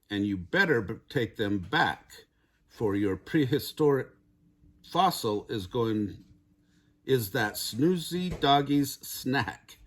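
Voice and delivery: firm but storybook-gentle telling off; mother's order. Acted. Mama orders her kitty boy to return the bones, lightly stern. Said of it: "ordered Mama".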